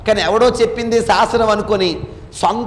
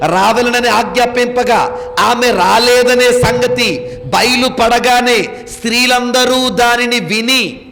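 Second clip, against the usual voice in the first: slow, measured Bible reading; scripture reading; slower than usual. Acted. Preacher reading Esther to the congregation, slow solemn scripture reading.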